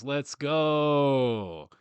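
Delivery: loud, drawn-out fan cheer; excited cheer. Real, not acted. Fan hyping up the Indiana Pacers, excited cheer. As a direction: stretch it out like a rallying cry.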